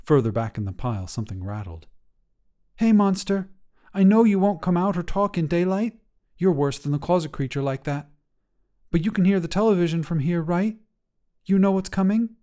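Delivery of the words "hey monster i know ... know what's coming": put-on higher, bright child voice, urgent and pleading; a young girl begging her closet monster to hide; worried kid voice, pushing hard to be believed; earnest little girl. Jacayla addresses garbage pile monster.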